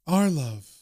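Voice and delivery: lightly voiced female ghost; ghostly Laura. And Laura says.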